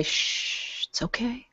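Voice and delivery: soft, whispered shushing; soothing hush. Acted. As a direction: hush him gently in a whisper. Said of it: "almost kind of stroke his hair a little bit".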